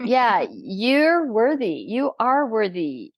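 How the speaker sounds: slow, drawn-out affirmation; gently insistent love voice. Acted. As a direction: affirm them slowly, letting each word stretch. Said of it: "the love voice that says".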